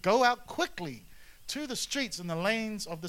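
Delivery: urgent, slowed command. Acted. Angry master ordering servant, urgent command. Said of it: "the urgency in this master's voice".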